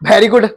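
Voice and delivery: VERY said "bheri", with a b sound; mispronounced very good. Shown as a demonstration. Teacher mimicking students asking for praise, mispronounced. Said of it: "sir ने बोला भाई very good".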